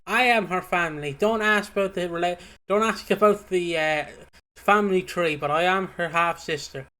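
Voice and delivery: lightly imitated feisty, insistent relative; scrappy sister. Continues impersonating the scrappy sister.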